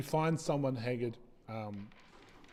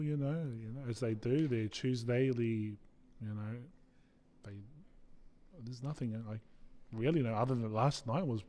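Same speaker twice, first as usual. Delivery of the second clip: slow, rambling local; lightly voiced villager, thinking aloud in fits and starts; halting answer, searching for the words; hesitant townsperson.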